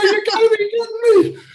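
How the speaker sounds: high, loud disbelief; can't believe his bad luck; incredulous outburst. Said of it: "I go".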